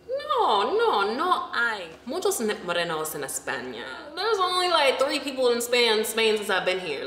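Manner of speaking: high, emphatic mock explanation; hammed-up exasperated local; imitating the beach guy. The beach guy explaining to her, high and emphatic.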